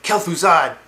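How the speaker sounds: loud, high exclaimed name; mock shocked recognition. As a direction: cry out the name as if stunned. Acted shocked recognition of mage.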